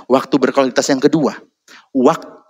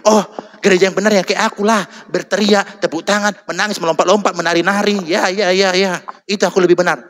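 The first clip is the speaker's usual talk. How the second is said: smug; 5 semitones higher than usual. Retold or imitated. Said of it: "Satu lagi gereja yang lain".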